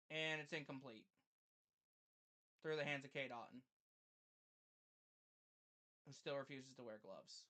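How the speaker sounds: quiet, measured live game commentary; subdued play-by-play. Acted. Streamer narrating the last-chance play to viewers, subdued play-by-play. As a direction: call the play softly, tension held in.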